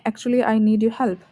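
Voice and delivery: slow, careful example; slow model sentence. Shown as a demonstration. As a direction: read it slowly like a teacher. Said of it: "गुड यूजेस आप देख सकते हैं". (धीमा उदाहरण वाक्य)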